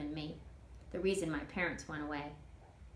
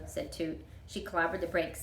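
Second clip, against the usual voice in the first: plain reading voice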